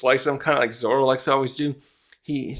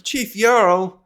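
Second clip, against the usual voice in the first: higher, louder call of protest; calling out the chief; 7 semitones higher, 4 dB louder, slower than usual. Retold or imitated. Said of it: "the other people are like".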